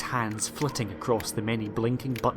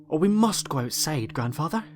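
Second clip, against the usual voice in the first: pleading; 4 semitones higher than usual. Acted. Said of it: "Susan pleaded".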